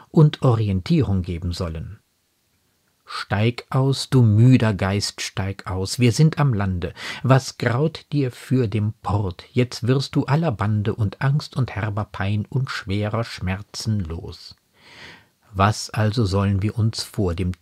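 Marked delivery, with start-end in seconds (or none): 3.1-14.6 measured verse reading; lightly declaimed poetry; poem recitation. Acted. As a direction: read the quoted verse deliberately, line by line. Quotes poem verses between commentary.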